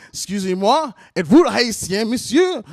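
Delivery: softened, courteous demo question; polite questioning. Shown as a demonstration. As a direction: ask a stranger politely, rising at the end. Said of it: "You go".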